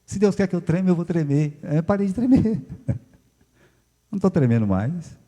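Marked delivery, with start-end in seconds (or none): 0.0-1.6 higher, louder self-quote; resigned acceptance. Retold or imitated. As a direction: give in with faith. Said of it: "eu falei".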